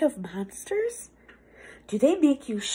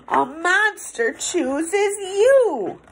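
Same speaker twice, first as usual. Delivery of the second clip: spooky reveal; 6 semitones higher, much slower than usual. Acted. Spooky reveal after gasp.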